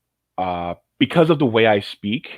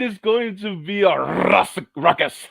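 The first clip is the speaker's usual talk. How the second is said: high, hammed-up English society voice; English debutante; 13 semitones higher than usual. Imagining co-host dressed as debutante, exaggerated English accent. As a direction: roll it out like a mock English debutante. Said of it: "like, some English debutante".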